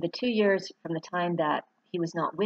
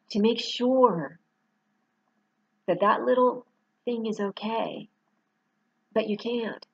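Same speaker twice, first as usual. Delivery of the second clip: emotional; 3 semitones higher than usual. Real, not acted. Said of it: "I'm getting a little emotional".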